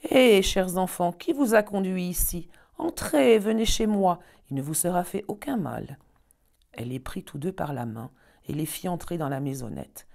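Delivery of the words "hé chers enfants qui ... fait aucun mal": a witch's voice, higher and louder at first, coaxing; old witch. Acted. Old witch coaxing lost children inside, higher, louder voice. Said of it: "La vieille secoua la tête et dit".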